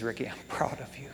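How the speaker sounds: low, very soft, quick; proud father, retold. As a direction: quietly voice a father's pride. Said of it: "And he says".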